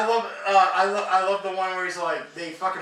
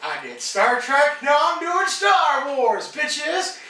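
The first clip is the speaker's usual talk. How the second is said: excited; 8 semitones higher, 4 dB louder, much slower than usual. Real, not acted. Excited podcast opener.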